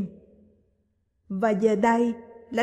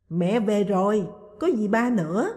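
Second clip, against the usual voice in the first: cheerful call. Acted. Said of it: "Lai reo lên".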